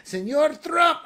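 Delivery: high, loud, hammed-up mock Asian accent; botched Asian accent. China pleading to Trump at the table, botched Asian accent. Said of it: "I can't speak with an Asian accent".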